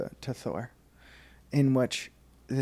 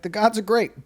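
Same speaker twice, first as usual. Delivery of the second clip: mock pious; 9 semitones higher, 6 dB louder than usual. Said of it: "Right as she's like".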